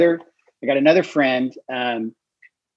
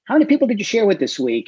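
high, quick quizzing voice; 1 quizzing question; 7 semitones higher, faster than usual. Retold or imitated. Group leader at accountability meeting, quizzing members quickly and brightly. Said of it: "it's like".

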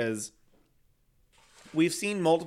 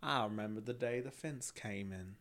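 mock southern accent; 4 semitones lower, 12 dB quieter than usual. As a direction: play an old Southern lady on a porch. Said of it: "help you with your southern accent".

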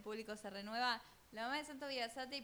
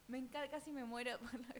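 laughing. Real, not acted. Laughing at the story.

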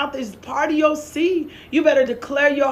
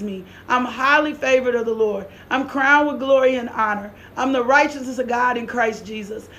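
steady, lower-pitched declaration of faith; confession recitation; 3 semitones lower than usual. Real, not acted. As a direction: recite it as a measured, formal confession.

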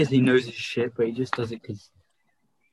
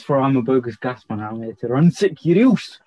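Still Game quote. Retold or imitated. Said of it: "When he says".

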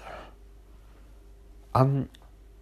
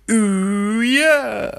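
much higher, louder squealing ooh yeah; second terrible impression; 11 semitones higher, 6 dB louder than usual. Another try at the plant, a hammed-up falsetto. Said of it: "That's also a terrible impression".

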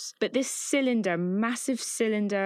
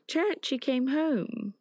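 higher, drawn-out delighted call, retold; happy greeting; 7 semitones higher, slower than usual. Daughter greeting her returning cat, happy. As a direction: imitate a happy child welcoming someone back. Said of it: "she's so happy".

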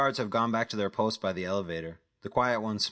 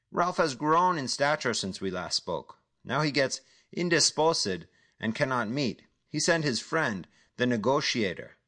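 higher, sneering caller voice; mocking dealer; 5 semitones higher than usual. Dealer on the phone mocking Jack, sneering menace. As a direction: toy with the negotiator, amused menace.

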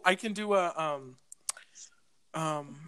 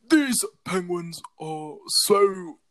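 mild British narrator; slower than usual. Retold or imitated. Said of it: "And he's like".

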